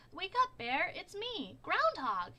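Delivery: loud, high call to wake Bear. A narrator's reading. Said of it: "he called".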